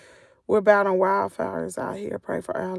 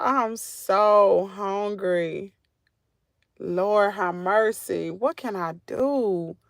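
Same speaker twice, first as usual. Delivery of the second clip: hungry moan; much slower than usual. Real, not acted. Complains she is hungry and weak.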